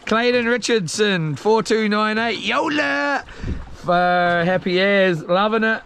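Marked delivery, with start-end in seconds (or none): 2.4-3.3 mock lion roar. Lion roar call again.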